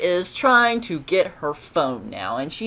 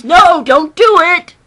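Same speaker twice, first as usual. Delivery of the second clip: high, loud, drawn-out warning cry; exasperated high-pitched yell; screamed warning; 13 semitones higher, 12 dB louder, slower than usual. Acted. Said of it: "that just screams".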